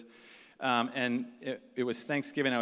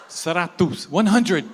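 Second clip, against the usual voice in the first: insistent count; 5 semitones higher, 10 dB louder, slower than usual. Retold or imitated. Insisting on hundreds of monkeys.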